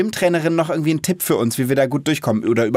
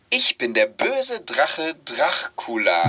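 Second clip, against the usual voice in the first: narrator voice; 3 dB quieter, much slower than usual. Shown as a demonstration. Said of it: "Richtig wie so ein Erzähler".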